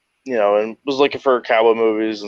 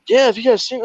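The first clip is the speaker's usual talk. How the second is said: lightly voiced buddy; 12 semitones higher, faster than usual.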